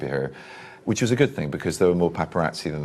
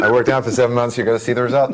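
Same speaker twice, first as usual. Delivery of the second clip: mock boast; 7 semitones higher, 7 dB louder, faster than usual. Joking boast about the workout.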